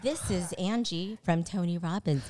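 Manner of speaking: lightly voiced perky phone receptionist; Angie's superstar phone voice. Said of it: "am I turning my white girl, uh, superstar voice?".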